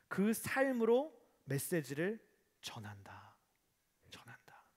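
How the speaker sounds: slow, hushed whisper; whispered message. Acted. Preacher to the congregation, slow whispered emphasis. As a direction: breathe the words slowly to draw them in.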